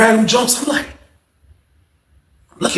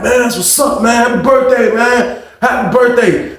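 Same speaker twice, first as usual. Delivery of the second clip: higher, upbeat imitation of a neighbor; cheerful congratulations; 4 semitones higher than usual. Inmate down the row congratulating him, cheerful high call. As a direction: wish him well in a lifted voice.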